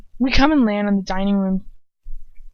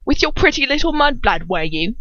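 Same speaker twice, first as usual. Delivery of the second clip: put-on higher, louder slurred drunken taunt; 6 semitones higher, 3 dB louder than usual. Shown as a demonstration. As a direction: lean into the drunk slur, leering. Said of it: "I have to get it right".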